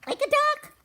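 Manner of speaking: very high, loud storybook question; wondering question. A narrator's reading. Fuzz hears Cork lives in a pond, surprised. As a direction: pipe up high in acted surprise.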